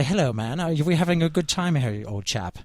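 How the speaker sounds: English accent. Shown as a demonstration. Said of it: "let's hear some of your English accent".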